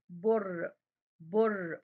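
"بر" held on a voiceless-vowel final ر; "بر" ending firmly on ر, no vowel after; stopping on the final letter. Shown as a demonstration. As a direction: say "بر" as one syllable, resting on the ر. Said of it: "وبقف عندها".

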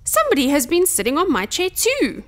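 mildly dismayed, gentle bear mother; soft voice. A narrator's reading. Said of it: "said Mother Bear in her soft voice".

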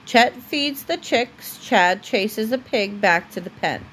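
steady storybook reading voice; reading to a child. Acted. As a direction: read it aloud for a little one at bedtime. Parent reads a story aloud to child.

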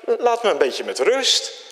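fed-up churchgoer grumbling; annoyed. Retold or imitated. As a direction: wave off the pushy preachers. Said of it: "dan denk je".

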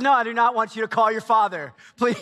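exasperated refusal. Retold or imitated.

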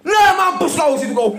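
loud, high, laughing taunt; gloating laugh-shout. Real, not acted. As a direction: crow over the win, laughing through it. Gloating at the slot result.

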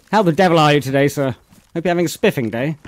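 hammed-up posh English gent greeting a viewer; put-on British accent. Streamer thanks a subscriber in a mock posh British accent. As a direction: play the toff in a British accent, rolling out the pleasantries. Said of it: "Love this accent subbing".

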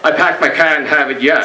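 working-class Boston accent with no r's. Shown as a demonstration. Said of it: "the lower classes would say".

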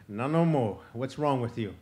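loud, lightly acted bear; big bear asking. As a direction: boom it out at the little possum. Big bear addresses crying possum.

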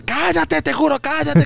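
high mock-furious scolding; furious mother, imitated. Mother warning daughter to shut up, high angry imitation.

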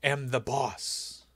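slow, booming mock-biblical decree; mock commandments. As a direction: hand down the law slowly. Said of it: "he goes".

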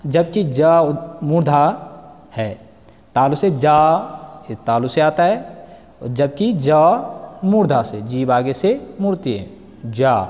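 जा said retroflex with the tongue curled back; careful teacher's articulation of जा; pronunciation demo. Shown as a demonstration. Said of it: "जा वर्ण तालु से उच्चारित होता है".

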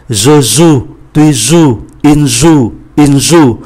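Je joue, tu joues, il joue, joue stressed and said zu each time; teacher stressing joue each time; stressed conjugation. Shown as a demonstration. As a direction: lean on joue to show they sound alike. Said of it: "các vị trí mà tôi nhấn mạnh".

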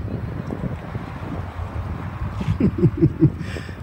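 long, soft breathy laugh. Real, not acted. Preacher amid a quarrel with hecklers, laughing softly. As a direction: let out a quiet, drawn-out laugh.

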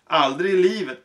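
grumbling strongman. Acted. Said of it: "brummade mister Strong".

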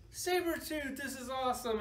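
high-pitched mock crowd excitement, no real roar. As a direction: imitate thrilled fans at a reveal. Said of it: "and then the crowd roared".

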